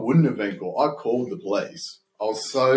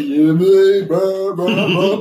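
mock flippant reply; 9 semitones higher, 6 dB louder, much slower than usual. Mocking answer in retold scene.

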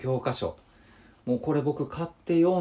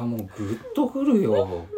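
choked-up laugh in real emotion; moved, laughing through the words; deeply moved. Real, not acted. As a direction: let the feeling well up as you speak.

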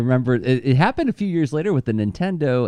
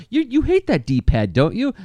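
high, pushy ad pitchman; pushy salesman voice; 9 semitones higher than usual. Pretend. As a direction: needle them like a cheesy salesman. Mocking the old ad's pitch.

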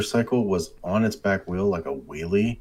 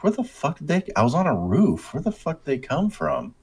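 much higher, exasperated disbelief; incredulous outrage; 9 semitones higher than usual. Retold or imitated. Gamer tells friends about cops spawning, high and incredulous. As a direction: sell the shock of enemies appearing from nowhere. Cops suddenly appear on roof.

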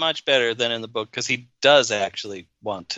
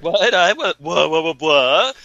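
mock bewildered what; 3 semitones higher, 5 dB louder, slower than usual. Acted confused reaction quote.

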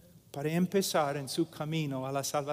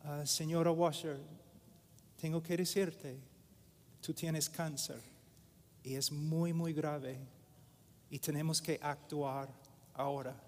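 doctor's grave news; 7 dB quieter than usual. Retold or imitated. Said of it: "Y él dijo".

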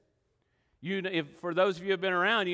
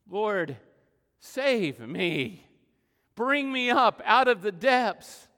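slow, rising plea that swells louder; pleading cry; 2 semitones higher, 6 dB louder, much slower than usual. Acted. Preacher voicing Peter's plea as he sinks, desperate cry. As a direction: cry out to the Lord from the depths.

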